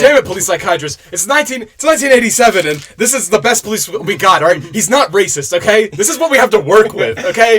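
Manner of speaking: mildly hammed-up irritation; mock exasperated chief. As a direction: argue back as an exasperated boss. Voicing a fed-up police chief.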